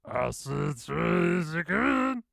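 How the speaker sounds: high, loud, slow, drawn-out exclaim; excited exclamation. Real, not acted. Streamer sees trippy trees in game, loud drawn-out wonder. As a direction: stretch it out in amazement.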